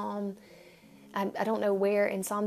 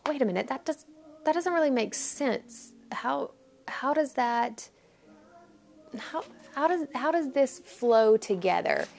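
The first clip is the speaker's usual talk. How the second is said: puzzled. Retold or imitated. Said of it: "I was a little kinda like".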